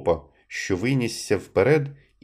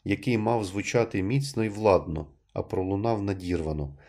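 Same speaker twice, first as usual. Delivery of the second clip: ordinary delivery, nothing marked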